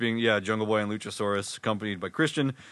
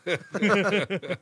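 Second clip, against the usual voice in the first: put-on New York accent; 4 semitones higher than usual. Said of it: "just doing the New York accent".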